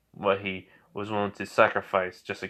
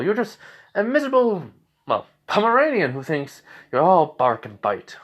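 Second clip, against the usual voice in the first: radio voice; 6 semitones higher than usual. Retold or imitated. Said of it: "He just likes the radio voice".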